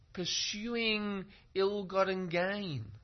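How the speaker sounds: high, slow drawn-out warning; Lady Wisdom calling. Acted. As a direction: call the warning out high and slowly. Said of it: "Lady Wisdom is saying".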